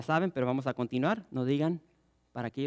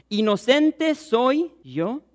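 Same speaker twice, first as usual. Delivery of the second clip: Pilate washing hands; 9 semitones higher, 9 dB louder, much slower than usual. Acted. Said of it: "se lavó las manos delante del pueblo".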